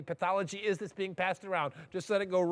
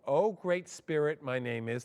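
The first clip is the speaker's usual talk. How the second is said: solemn slow invocation; 3 semitones lower than usual. Shown as a demonstration. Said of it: "We have to say".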